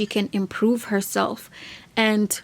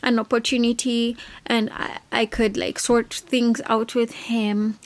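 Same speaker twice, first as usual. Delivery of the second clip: lightly voiced whiny girl; imitating Moira; 2 semitones higher than usual. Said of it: "at first she was just like".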